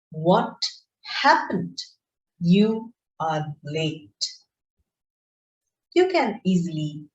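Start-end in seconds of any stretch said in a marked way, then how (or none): 0.1-4.2 slow, cross demo of scolding someone late; angry. Shown as a demonstration. Teacher demonstrating an angry tone to students, slow and cross. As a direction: scold a latecomer, slowly. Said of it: "I'm angry with the person".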